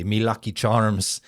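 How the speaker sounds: Irish accent. Shown as a demonstration. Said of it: "for me to get into the Irish mode".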